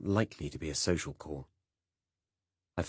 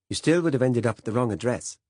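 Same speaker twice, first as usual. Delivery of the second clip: put-on Saxon accent; 6 semitones higher, 7 dB louder than usual. A narrator's reading. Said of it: "his Saxon accent stronger than before".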